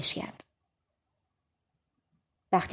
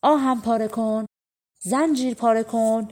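shouted call; 3 semitones higher than usual. Acted. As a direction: call out the chant to the dogs, voice raised. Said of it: "فریاد کشید".

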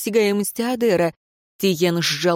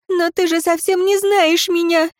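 higher, desperate woman's cry; higher, despairing cry with the stress on «не»; 11 semitones higher than usual. Acted. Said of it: "в отчаянии воскликнула".

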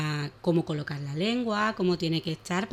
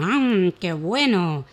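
slow satisfied sigh; 6 dB louder, much slower than usual. Acted. Horse enjoys his meal.

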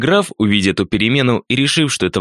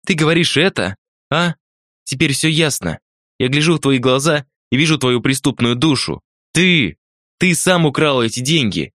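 raised-pitch accusation, building to the charge; hoarse-voiced woman; 6 semitones higher than usual. A narrator's reading. Woman turns the theft charge back on the wounded man, high accusing voice. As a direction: accuse him head-on in a higher voice. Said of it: "спросила она хриплым голосом".

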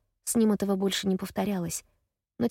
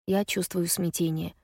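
plain reading voice

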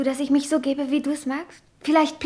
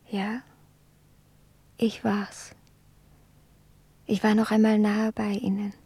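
whispered confession; 3 semitones lower than usual. Acted. Edwarda whispers her confession to Glan, hushed. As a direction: whisper it close to his ear.

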